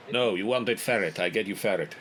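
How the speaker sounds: lightly voiced broken-English seller; a touch of unplaceable foreign accent; trader's foreign accent. Shady seller swapping cages for customer, light foreign accent.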